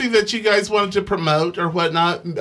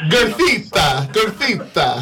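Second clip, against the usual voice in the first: mock Italian. Friend answers how girth is said in Italian, mock Italian accent. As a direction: joke word in a put-on Italian accent. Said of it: "How do you say that in Italian".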